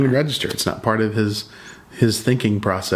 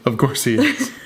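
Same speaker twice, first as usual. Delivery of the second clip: laughing; 4 semitones higher than usual. Retold or imitated. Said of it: "Chris is like".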